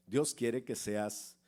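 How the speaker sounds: slow down on Dios quiere que seas, each word weighed; slow emphasis. Shown as a demonstration. Preacher repeating the promise to the congregation, slow and deliberate.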